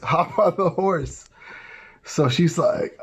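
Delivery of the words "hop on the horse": slow, easy hop on; gentle invitation. Retold or imitated. Prophet invites the girl up, slow and kind. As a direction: invite her kindly, unhurried.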